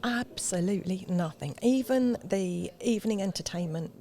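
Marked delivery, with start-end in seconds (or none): 0.0-1.5 hushed confiding whisper. Real, not acted. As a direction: whisper it like a secret. Confiding they did nothing.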